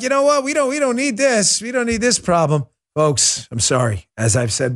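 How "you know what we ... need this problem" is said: high-pitched, lightly acted backing away; mock worried retailer. Target backing away from a problem, mock worried. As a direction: pitch it up, then ease down while backing off.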